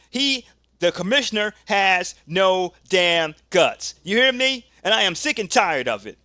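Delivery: angry wrestler rant. Acted.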